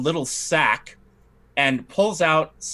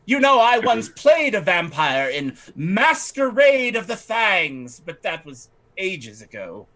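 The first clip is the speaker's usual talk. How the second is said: slow, a touch higher lady's voice; reminiscing noblewoman; 4 semitones higher than usual. Acted. Lady telling the vampire of her old stage role, slow. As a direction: fondly recall an old role. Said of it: "Oh, she says".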